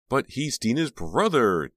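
high, loud, slow cry. A narrator's reading. Jade protesting to Teddy, high cry. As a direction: protest in alarm. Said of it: "Jade cried".

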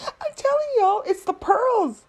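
giggling, breathy and high; laughing whisper. Real, not acted. Laughing at pearls remark.

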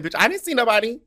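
high, loud mock-incredulous protest; retold loud denial. Telling a friend nobody recognized him, high loud disbelief. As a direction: exclaim it in exaggerated disbelief.

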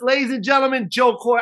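mock host intro. Mimicking host's curt intro.

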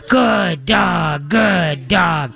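booming, backslapping praise; slap-on-the-back guy bellowing; hearty shout. Retold or imitated. Guys pounding the dog's side and shouting praise. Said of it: "on the side and go".

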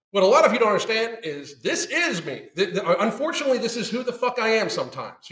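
laughing through the admission. Real, not acted. Admitting to viewers with a laugh.

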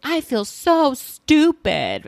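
high, slow, badly faked Gina accent; a half-hearted try at her accent, drawn out; Gina's accent attempt. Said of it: "I can't even do her accent".

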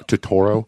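Totoro said tuh-TOR-oh; added syllable. Retold or imitated. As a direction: mimic the mangled name Totoro as tuh-TOR-oh. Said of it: "when people add syllables to it".

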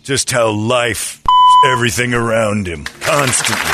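gruff macho Marine colonel, lightly voiced; hard-nosed colonel sneering at the crew; Colonel Nathan Jessup. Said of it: "It's Colonel Nathan Jessup".

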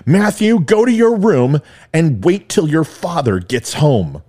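lightly voiced stern mother. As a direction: hand down the punishment like an angry mom. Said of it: "laid out her cruel intentions".

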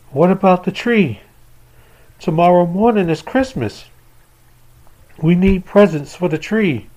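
put-on anxious little boy; child voice. Child asks mother about tree.

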